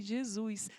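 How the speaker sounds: exasperated aside. Retold or imitated. Muttered aside to Jesus.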